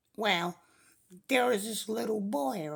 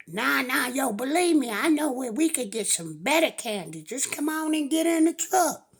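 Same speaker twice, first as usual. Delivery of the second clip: insistent stranger; 4 semitones higher, 4 dB louder than usual. Acted.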